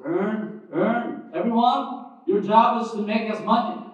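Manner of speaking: rally everyone to earn; preacher urging the congregation, building to a loud call; rousing exhortation. Real, not acted.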